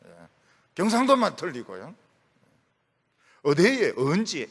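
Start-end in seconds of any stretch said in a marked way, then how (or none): 3.4-4.5 lightly imitated Gyeongsang accent; Gyeongsang dialect. Shown as a demonstration. Preacher showing how Gyeongsang people talk, in their dialect. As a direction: mimic short Gyeongsang dialect phrases. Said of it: "이건 다 경상도 사람들이 하는 거죠".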